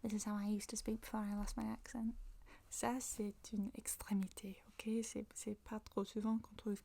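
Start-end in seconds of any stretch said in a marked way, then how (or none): 0.0-2.1 nasal, exaggerated Mancunian English; broad nasal Manchester demo; strong Manchester accent. Shown as a demonstration. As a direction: lay the old Manchester accent on thick, through the nose. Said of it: "avec un accent na-, nasal".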